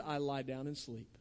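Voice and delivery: "I lie down and sleep." said low and soft; low, quiet scripture line; hushed quote. Shown as a demonstration. Preacher quoting David, hushed.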